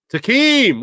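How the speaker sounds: high shout-out greeting; calling out. Real, not acted. Host greeting a chatter by name, high call.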